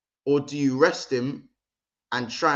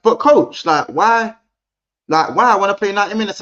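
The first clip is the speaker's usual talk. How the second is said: high, loud pleading player voice, much higher and louder; whiny Saka; 8 semitones higher, 9 dB louder than usual. Retold or imitated. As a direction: whine like a young player begging his coach. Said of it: "Saka's like".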